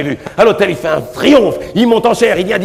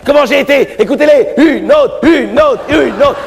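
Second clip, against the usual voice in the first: put-on gloating young priest; 7 semitones higher than usual. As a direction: crow about the triumph. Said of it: "il dit".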